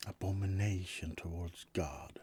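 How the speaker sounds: whispered mock solemnity. Vampire whispering the church's verdict to roommate. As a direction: hush it like a sacred charge.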